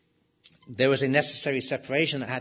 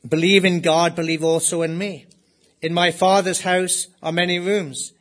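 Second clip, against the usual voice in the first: louder, ringing sermon reading of the promise; forceful scripture reading; 4 dB louder than usual. Acted. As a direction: proclaim it to the congregation. Reads scripture at full force.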